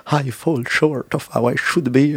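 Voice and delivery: whiny inner voice; mock insecure inner voice. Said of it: "You keep feeling like".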